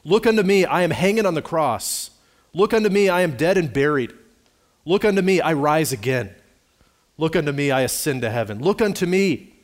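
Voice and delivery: acted preacher's ringing, repeated plea; impassioned preaching. Preacher voices Christ calling to the sinner from the cross, impassioned calling. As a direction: call out each appeal high and loud, then ease down. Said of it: "the good man followed up his text in this way".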